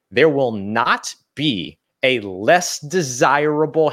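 slow, deliberate word-by-word emphasis; emphatic, very clear. Real, not acted. Host telling Luke about the Panthers opening, slowly and emphatically. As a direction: spell it out slowly, leaning on each word. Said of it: "I cannot say this more clearly".

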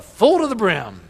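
loud, slow, high and full of passion; said like you love it. Shown as a demonstration. Pastor urges the congregation, loud and passionate. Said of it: "Now say it like you love it".

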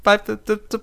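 high, stammering frightened plea; scared pleading. Retold or imitated. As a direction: beg it not to happen, stuttering. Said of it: "wo ich so dachte".

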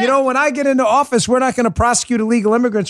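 high, hammed-up sly campaign pitch; mock politician promise. Host mocks a politician winking at voters, high and sly. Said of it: "if you say, and you signal with a wink and a nod".

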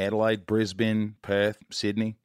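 measured list of cities in an Aussie accent; American trying out Australian city names. Shown as a demonstration. American host showing off to Australian guest, Australian accent. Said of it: "learn an Australian accent".

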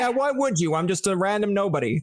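high, resigned agreement; agreeable shrug. Retold or imitated. Host agreeing with the stranger, high and resigned. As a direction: concede it cheerfully. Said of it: "I'd be like".

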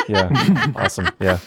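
laughing. Acted. Laughing in character.

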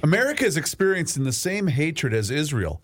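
reading the dictation back. Shown as a demonstration. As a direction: read it back to check it. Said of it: "read it back to me".

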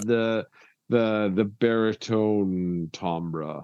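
a lightly put-on deep drawl; mock baritone. Co-host teases host about his voice, mock baritone. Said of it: "talk like this".

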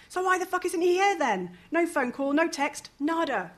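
high, loud indignant outburst; angry rant. Acted. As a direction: spit it out, furious he hasn't called. Melody ranting at absent Fraser.

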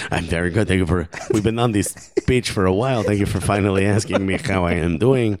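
mock French accent slipping into Argentinian; comic French-Argentinian accent; Karim Benzema. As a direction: put on a wobbly foreign accent, French drifting Argentinian. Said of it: "I'm starting to sound Argentinian".

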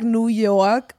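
New York said in a put-on New York accent; exaggerated local New York accent; forced New York accent. Real, not acted. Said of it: "Why I say New York like that?".

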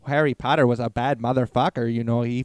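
put-on accent drifting into Irish; Irish-leaning accent. Shown as a demonstration. Host demonstrating a character review, loose Irish accent. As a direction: try a punchy, wandering Irish accent. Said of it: "that was Irish by the end".

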